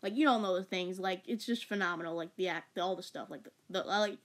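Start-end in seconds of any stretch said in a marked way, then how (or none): 3.3-4.2 stumbling, stuttering over words; real stutter from excitement. Real, not acted. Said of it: "I know it sounds like I'm stuttering a lot".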